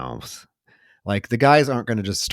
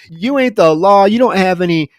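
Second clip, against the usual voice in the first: louder mock tough-mama retort; defiant mother; 9 semitones higher, 8 dB louder than usual. Mother telling off the mailman, mock defiant. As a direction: stand your ground at the men. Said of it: "And she's like".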